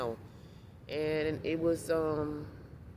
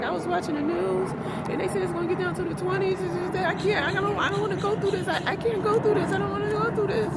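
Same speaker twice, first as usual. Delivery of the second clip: imitating a panicked lady, much higher and louder; panicked, near tears; 13 semitones higher, 5 dB louder than usual. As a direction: mimic her frantic near-crying panic. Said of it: "freaking out".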